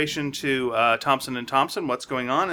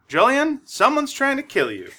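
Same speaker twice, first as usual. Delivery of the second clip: panicked squeal; 10 semitones higher than usual. Acted. Voicing frightened Wag's quote.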